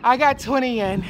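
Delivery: loud proud shout; excited shout. Real, not acted. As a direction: yell it in triumph. Celebrating finished reps.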